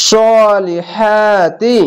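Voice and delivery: very slow chanted tajweed reading; drawn-out Quranic chant; slow recitation. Shown as a demonstration. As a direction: stretch the long vowels in prayer style. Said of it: "এক আলিফ টেনে পড়বেন".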